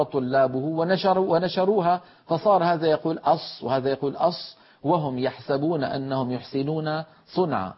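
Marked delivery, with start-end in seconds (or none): 3.2-4.6 "أص" with lips pushed forward and rounded; lip-rounded Sad. Shown as a demonstration. Teacher mimicking a common reciters' fault, lip-rounded "أص". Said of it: "إعمال الشفتين عند نطق حرف الصاد خطأ".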